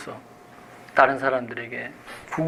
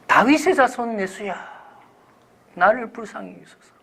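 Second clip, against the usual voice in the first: calling out; 7 semitones higher than usual. Acted. Blind beggar calls to Jesus for mercy, calling out. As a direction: cry out high to someone passing by. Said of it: "그래서 그가 불렀어요".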